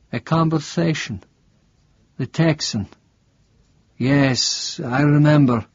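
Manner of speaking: a frail priest, suddenly alert; startled priest asking a stranger; confused old priest. Acted. Priest recalls the Texan.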